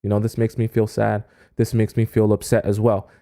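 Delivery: demo of sad energy. Shown as a demonstration. Showing women how a trauma-dumping date sounds, mildly sad. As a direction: drop into a gloomy, deflated tone. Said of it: "You can even feel it coming out of me".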